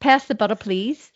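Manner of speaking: Australian trying American; attempted American accent. Shown as a demonstration. Student showing the dialect coach, attempted American accent. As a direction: have a tentative go at an American accent. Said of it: "So American first for you".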